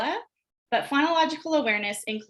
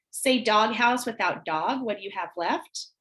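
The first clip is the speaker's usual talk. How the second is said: slow teacher prompt. Shown as a demonstration. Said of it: "start having them delete syllables".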